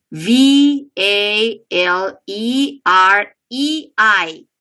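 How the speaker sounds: slow, letter-by-letter dictation; spelling out slowly. Shown as a demonstration. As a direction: spell it slowly, each letter held separately. Teacher spelling out an example name.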